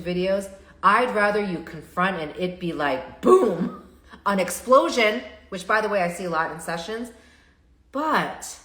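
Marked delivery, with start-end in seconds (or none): 3.2-5.2 louder, laughing through it; a laughing boom. Real, not acted. Therapist joking about sessions exploding, laughing loudly.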